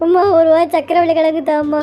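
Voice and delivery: low, whimpering plea; tearful. Acted. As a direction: beg mum through put-on tears. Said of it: "அவன் உண்மையிலே அழுக ஆரம்பிச்சிட்டா".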